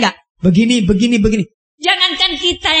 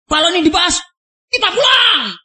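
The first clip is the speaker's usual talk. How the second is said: raised, higher mock shout of a threat to walk out; retold angry threat; 6 semitones higher than usual. Ustadz Ahmad Khodim threatening to leave the meeting, mock yell. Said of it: "berteriak keras".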